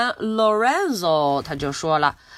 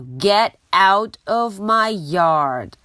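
slow, louder angry yell; 3 dB louder, slower than usual. Acted. Angry neighbour yelling at the pig in her yard. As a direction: bark it at the pig again. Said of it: "Eugenia真的很生气".

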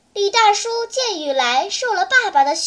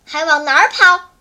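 louder teasing call; 6 dB louder than usual. Acted. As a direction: stop the boy with a sudden call. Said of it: "就听一个声音叫他". (突然叫住他)

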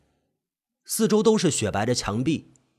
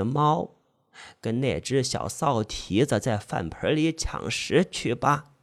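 put-on menacing old woman; 4 semitones lower, 4 dB quieter, slower than usual. Old woman cruelly threatens.

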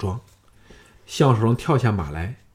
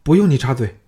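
cold rebuke; 4 dB louder, faster than usual. Acted. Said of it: "朱姬冷喝道".

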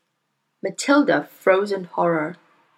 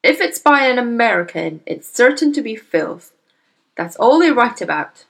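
louder, dismissive bluster; scornful father; 3 semitones higher, 5 dB louder than usual. Acted. Father scoffing at American writers, dismissive. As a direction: scoff at the whole country.

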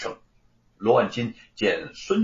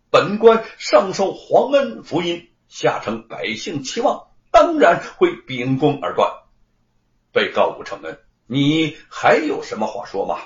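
pompous magistrate; 6 dB louder than usual. Acted. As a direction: declaim like an upright judge, lightly acted. Magistrate declaims righteously in court. (冠冕堂皇地大声打官腔)

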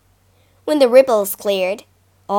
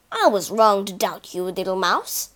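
humble lion; 5 semitones lower than usual. Acted. Lion thanks mouse.

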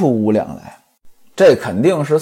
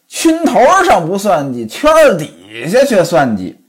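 angrier scolding. Acted. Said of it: "这火儿更大了".

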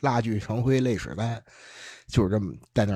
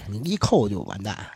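ordinary talk

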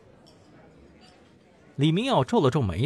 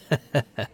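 short embarrassed laugh, trailing down; awkward chuckle; 3 dB quieter than usual. A narrator's reading. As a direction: laugh it off, a bit sheepish. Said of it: "尴尬地". (尴尬的干笑)

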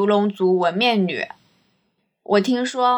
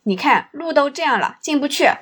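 fake apologetic guide; 5 semitones higher than usual. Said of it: "然后和客人说".

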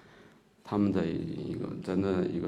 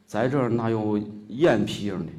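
speaking in Xi'an dialect to a local shopkeeper; 5 dB louder than usual. Retold or imitated. To the shadow puppet shopkeeper, in Xi'an dialect. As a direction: asks in Shaanxi dialect, a bit louder. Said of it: "西安话说".

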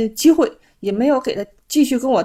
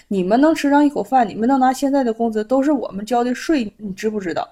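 exasperated retold outburst. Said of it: "后来我实在忍不住了".

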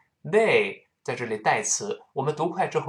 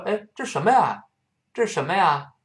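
对话角色发问；音调抬高，扮演第二个人好奇发问；演出对话里惊讶地问一句；第二个人看到痕迹发问，音调扬起; 5 semitones higher than usual. Acted. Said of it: "第二个说".

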